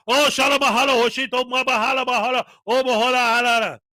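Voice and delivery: lightly hammed-up gibberish chant; mock speaking in tongues. Podcaster mocking an auditor outside churches, lightly hammed-up gibberish. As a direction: rattle off mock tongues like a street preacher. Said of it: "goes to churches every Sunday and goes".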